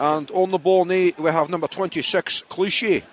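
match commentary in a put-on Scottish accent. Shown as a demonstration. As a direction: call the play like a Scottish commentator. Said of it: "I'm gonna do a Scottish commentary".

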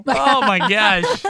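surprised. Real, not acted. Reacting to helium voice.

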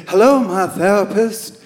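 sing-song tease at the door; mocking. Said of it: "mocking the whole therapy thing".

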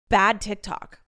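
bad TikTok with bad punched; stress on bad. Real, not acted. Telling listeners, stressing the word bad. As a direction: lean hard on "bad" in "bad TikTok". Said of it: "Not like I'm on the wrong side".

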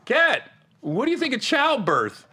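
slow, high goofy Kat impression; Cat voice. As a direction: play it dumb and dragged out. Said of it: "That's your Cat voice?".

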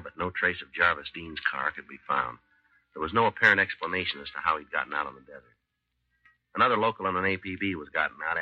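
steady, matter-of-fact police narration; calm, even recap of the case; story narration. A narrator's reading.

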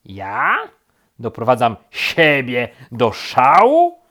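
loud, incredulous question; stunned, indignant outburst; shocked. A narrator's reading. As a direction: throw it back in loud disbelief. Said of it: "zapytał zszokowany królik".

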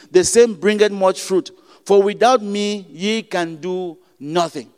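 preacher reading Bible words; scripture reading. Acted. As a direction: declaim the verse, slowing at its close. Quoting scripture in sermon.

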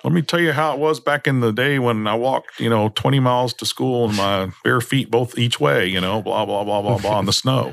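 put-on crotchety old-timer, high and far; old prospector. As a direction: spin a yarn like a grizzled geezer. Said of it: "And I'll be like".

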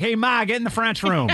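lightly put-on Chicago local accent; mock Chicago accent. Host imitating a listener's Chicago-born kids, mock Chicago accent. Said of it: "Do your kids speak with".

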